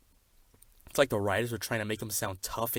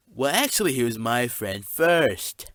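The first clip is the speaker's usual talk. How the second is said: indignant; 3 semitones higher, 7 dB louder than usual. Acted. Jealous claim on friend.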